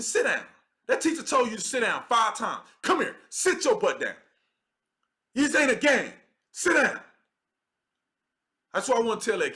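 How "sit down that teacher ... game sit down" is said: put-on mildly heated order to a misbehaving kid; no-nonsense parent's command, played out; acted scolding. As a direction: tell off a child who won't sit, building higher at the end. Acted telling-off of another's kid.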